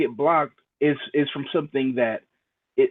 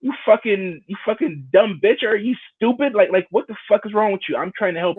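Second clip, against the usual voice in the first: higher-pitched acted rant; exasperated berating; 4 semitones higher than usual. Acting out berating an ungrateful friend, exasperated. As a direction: scold in frustration without shouting.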